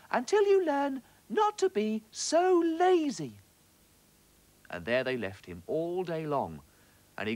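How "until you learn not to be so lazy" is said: high, slow and triumphant; triumphant little fish. A narrator's reading. Little fish telling the trapped octopus off, high and slow. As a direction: gloat slowly over the trapped bully. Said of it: "said the little fish".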